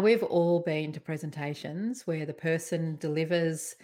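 ordinary delivery

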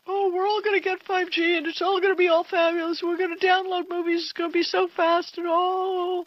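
high-pitched gushing, imitating naive hype; mock excitement. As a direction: gush like an overexcited believer, sent up. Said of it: "Now, everybody thinks".

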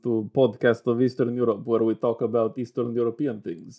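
put-on Eastern European podcast welcome; lightly hammed-up Eastern European host voice; Eastern European accent. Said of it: "give a more East European-y flair".

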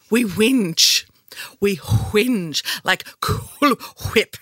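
whisper. Pretend. Joking aside about whinging.

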